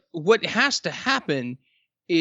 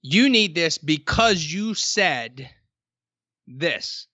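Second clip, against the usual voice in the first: slow and measured, each word weighed; a salesman slowly pointing out the need; slow, deliberate quote; much slower than usual. Retold or imitated. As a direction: spell it out slowly to the customer. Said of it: "something to the effect of".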